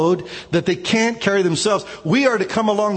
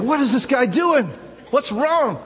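puzzled; 8 semitones higher than usual. Retold or imitated. Puzzled by the friend avoiding him.

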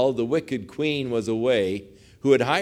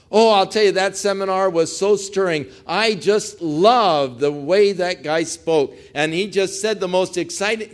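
gushing seminar-goer; 5 semitones higher, 3 dB louder than usual. Retold or imitated. Mimics a gushing seminar attender.

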